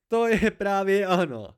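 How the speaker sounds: loud, high-pitched hysterical cry; high hysterical outburst. A narrator's reading. Bast exploding at Kvot's question, high and hysterical. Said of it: "vybuchl Bast vysokým, hysterickým hlasem".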